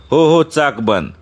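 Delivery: slow, with "चाक" given weight; stress on चाक. A narrator's reading. Bhau confirms the wheel ban, stressing "चाक". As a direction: lean on the word "चाक". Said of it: "भाऊनं चाक शब्दावर जोर दिला".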